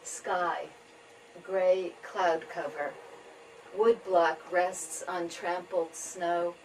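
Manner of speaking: measured tanka reading with pauses between lines; poetry reading. Acted. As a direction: read each image slowly, letting it settle. Reads own tanka.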